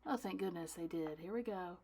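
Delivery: ordinary delivery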